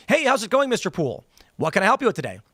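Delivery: hammed-up friendly bank assistant; chummy chatbot agent. Imitating a bank chatbot greeting a caller, chummy. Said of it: "it's a guy going".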